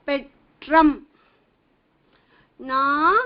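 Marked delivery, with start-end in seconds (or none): 0.1-1.0 "Petram" with a hard retroflex tr and a short final am; pronounce petram. Shown as a demonstration. Teacher to students, modeling petram carefully. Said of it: "You have to say like that".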